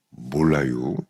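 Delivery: low, drawn-out Chungcheong lilt; Chungcheong accent. Shown as a demonstration. Preacher showing how one phrase reveals origin, Chungcheong accent. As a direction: imitate an unhurried Chungcheong local. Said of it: "이러면 딱 충청도 사람".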